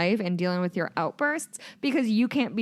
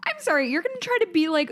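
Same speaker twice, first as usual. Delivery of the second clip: teasing; 10 semitones higher, faster than usual. Pretend. Teasing high mock apology.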